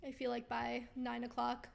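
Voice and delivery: tired, fading hoarse voice; losing voice. Real, not acted. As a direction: voice giving out after a long day. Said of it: "I'm losing my voice again".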